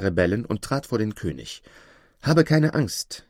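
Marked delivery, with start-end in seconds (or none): 2.2-3.3 slow, high, clear reassurance; reassuring hero. A narrator's reading. Aladin calming the frightened king, slow reassurance. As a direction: say it drawn out and steady.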